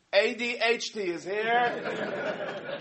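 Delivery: very slow, spelled-out letters; slow reading of initials. Retold or imitated. Hat clerk slowly reads out customer's initials. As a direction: drag out each letter. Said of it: "He goes, um".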